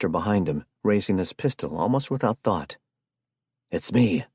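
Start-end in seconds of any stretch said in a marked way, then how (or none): 3.7-4.2 loud call across the snow. Acted. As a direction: call out from afar. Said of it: "Stuart called out".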